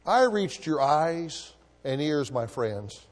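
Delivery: slow, moved actor's confession; voice shaking. Retold or imitated. Actor confesses to the room, mildly shaken and slow. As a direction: speak it slowly, touched. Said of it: "His voice shook".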